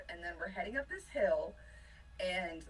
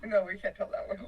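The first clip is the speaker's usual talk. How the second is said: real laughter running through the words; amused, laughing as you talk; laughing refusal; 4 dB louder than usual. Real, not acted. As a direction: laugh while begging off telling it. Laughs while refusing the story.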